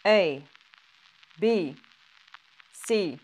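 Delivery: lettres criées avec retenue; essai de crier. Shown as a demonstration. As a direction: tente de crier A B C D au micro. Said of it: "Comment m'humilier". (essai de cri un peu timide)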